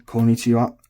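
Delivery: "Konnichiwa" with just one short n; Konnichiwa said as ko-ni-chi-wa; dropped long n. Shown as a demonstration. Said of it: "drop the "m," so we say".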